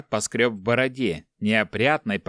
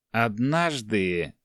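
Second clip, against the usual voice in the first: embarrassed admission; much slower than usual. Acted. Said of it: "смущённо признался монах".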